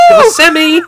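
coughing, choking on water; spluttering after water went down wrong; choking on a drink. Real, not acted. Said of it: "Sorry, I swallowed".

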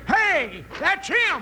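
excited recognition. Acted. Grandpa suddenly recognizes someone.

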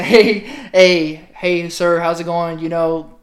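loud opening hail, lightly voiced gringo; gringo caller. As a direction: lightly play a gringo calling out on the phone. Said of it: "you got a call from a gringo".

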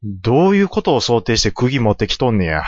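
ordinary delivery

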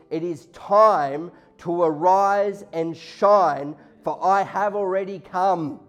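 slow, loud proclamation; proclaiming. Acted. Preacher to the congregation, slow loud proclaiming. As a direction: ring it out slowly like a herald.

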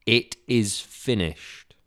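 slow, loud final declaration; loud proclamation. Acted. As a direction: announce it with slow, solemn force. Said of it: "shouted out in a loud voice".

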